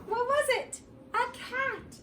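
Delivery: high excited squeal of surprise; spring the surprise on the kids; squealing with delight at the reveal. Acted. Suspense reveal in story.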